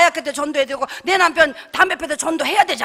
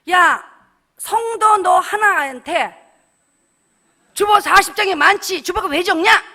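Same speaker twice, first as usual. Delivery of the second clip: brother's loud retort; 5 dB louder, slower than usual. Retold or imitated.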